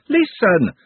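loud, urgent command; sharp call. A narrator's reading. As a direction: snap it out. Trev demanding attention.

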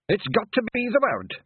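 high, loud desperate yell. Acted. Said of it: "yelled Rob Anybody desperately".

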